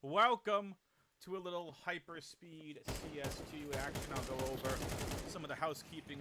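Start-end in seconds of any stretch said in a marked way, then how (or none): 0.0-4.1 much higher, louder hype call; excited welcome. Acted. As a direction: shout the welcome up high. Announcer welcome, high and loud.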